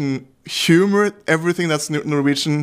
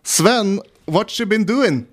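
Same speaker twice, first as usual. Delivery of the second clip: raised, lively joke voice; Ole character voice; 6 semitones higher, slower than usual. Acted. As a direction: pitch up for Ole the Norwegian. Joke dialogue, Ole's voice.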